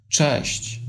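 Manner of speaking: a small, whispered, sad hello. A narrator's reading. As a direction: breathe it out sadly, barely voiced. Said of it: "ze smutkiem w głosie". (smutne, szeptane cześć)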